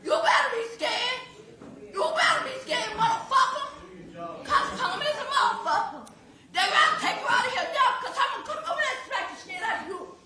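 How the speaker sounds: ragged crying fury, spat-out curses; enraged yelling. Real, not acted. Mother curses the defendant across the courtroom, sobbing fury. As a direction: threaten him while sobbing and shaking with rage.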